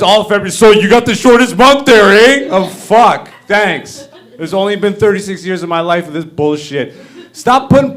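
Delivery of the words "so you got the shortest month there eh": mock white friend, louder with a rising eh; lightly voiced Canadian white guy. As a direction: ham up a smug white buddy. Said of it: "All my white friends".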